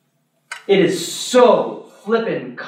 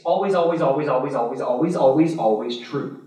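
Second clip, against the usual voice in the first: repeated always, fading lower and softer; insistent repetition; 4 semitones lower, 3 dB quieter than usual. Real, not acted. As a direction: hammer it home, then let it sink. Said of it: "is always true in every case".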